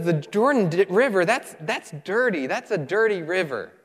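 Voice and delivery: mildly outraged complaining, no shouting; mock indignation. Preacher acts out Naaman scorning the dirty Jordan, mildly angry. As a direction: play a put-out traveler protesting. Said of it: "went away in a rage".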